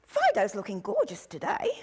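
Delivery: high, bright mock gush to the owner; gushing praise. Shown as a demonstration. Instructor showing how to praise a struggling handler's dog, gushing. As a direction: lay the flattery on thick, sky-high start. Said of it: "just go up to them and say".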